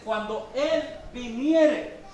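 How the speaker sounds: "Él" drawn out in a slow reading; slow verse reading, hit the word "Él"; stress on Él. Shown as a demonstration. Teacher shows why translators added the accent, stressing "Él". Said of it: "le pusieron el acento".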